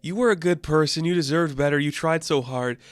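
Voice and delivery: a high, lightly voiced sad widow; half-hearted mock lament; mock grieving Marlene. Marlene mourning Mark, in a high mock-sad voice. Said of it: "And Marlene's like".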